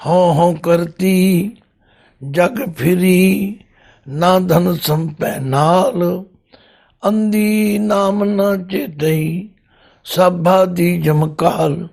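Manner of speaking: slow, drawn-out verse recitation; measured Gurbani recital with long-held syllables; scripture recitation. Acted. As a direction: recite sacred verse slowly, lingering on each phrase.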